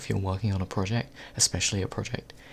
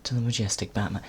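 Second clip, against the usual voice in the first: nature documentary narrator. Acted. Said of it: "now I'm doing it like a nature documentary".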